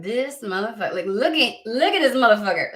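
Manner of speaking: imitating a spirit, growing incredulous; mock spirit voice. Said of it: "spirit going like".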